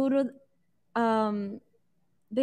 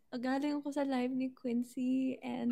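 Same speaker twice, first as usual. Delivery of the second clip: tearful put-on sob voice for a prank; fake crying; 7 dB quieter than usual. Prankster rehearsing a fake crying call, tearful voice. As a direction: fake a teary confession. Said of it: "I'll just cry and I'll be like".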